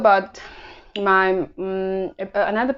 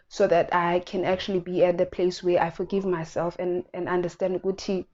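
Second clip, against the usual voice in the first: getting emotional; 4 dB quieter than usual. Real, not acted. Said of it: "I'm getting emotional".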